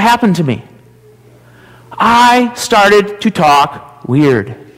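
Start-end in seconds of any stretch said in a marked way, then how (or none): 1.9-4.6 very slow, drawn-out Mississippi drawl; Southern drawl. Shown as a demonstration. Pastor showing children how they talked weird in Mississippi, Southern drawl. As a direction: stretch each word in a Southern drawl. Demonstrating having picked up weird talk.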